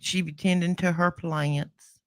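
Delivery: lightly put-on Southern country accent. Shown as a demonstration. Cohost lets her covered Southern accent show, mildly. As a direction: let a little Southern twang out. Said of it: "Let me give 'em some voice without this, uh, accent I cover".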